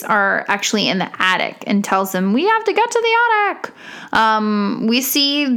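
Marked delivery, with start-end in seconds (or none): 2.3-3.7 high, fast panicked hero line; urgent hero shout. Retold or imitated. Urgent quote from hero in chase.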